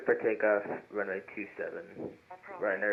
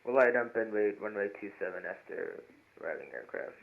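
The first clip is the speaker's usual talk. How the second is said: pilot over the radio; 10 dB quieter than usual. Real, not acted. Pilot reading back on radio.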